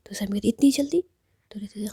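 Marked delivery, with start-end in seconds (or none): 0.6-1.0 sharp surprised question, pitched up and louder. Retold or imitated. Sammy hearing the February wedding date, surprised. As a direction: blurt it out in disbelief.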